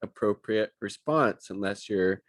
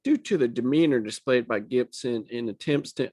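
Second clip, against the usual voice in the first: lightly put-on Southern accent. Reading deputy's report aloud, slight Southern accent. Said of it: "I was doing a Southern accent".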